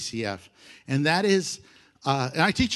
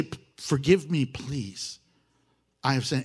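humble plea; 3 semitones lower than usual. Shown as a demonstration. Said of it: "You say".

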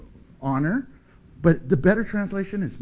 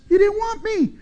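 God speaking to the sinner; 7 semitones higher, slower than usual. Pretend. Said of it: "He says".

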